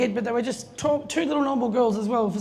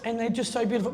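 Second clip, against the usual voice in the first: tender. Retold or imitated. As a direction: linger over it lovingly. Proud mum gushing about twins.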